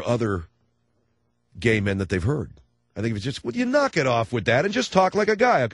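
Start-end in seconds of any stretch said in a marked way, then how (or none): 3.4-5.7 mock effeminate voice. Acted exchange about gay speech.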